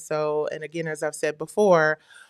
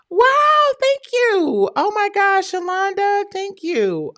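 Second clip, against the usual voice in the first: high-pitched, astonished thanks; thrilled gratitude; 14 semitones higher, 3 dB louder, slower than usual. Real, not acted. Livestreamer learns a fan named her daughter after her, thrilled. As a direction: gush in a soaring, overjoyed voice. Reacting to a surprising tribute.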